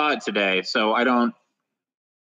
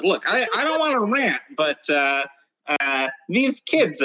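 half-hearted ranting comic as Santa, higher at first; Dennis Miller; 3 semitones higher than usual. Acted. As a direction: lightly imitate a ranting comedian, then stall. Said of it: "I can't do a Dennis Miller thing".

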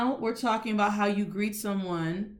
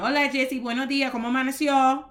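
maids' greeting; 5 semitones higher, 3 dB louder, faster than usual. Retold or imitated. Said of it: "they would greet me".

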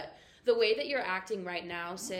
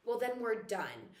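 firm, slow breakup line; straight up; 4 dB quieter, slower than usual. Retold or imitated. Host re-enacting herself with a guy, straight up. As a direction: state it plainly, no wavering. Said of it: "I'll just be so straight up".

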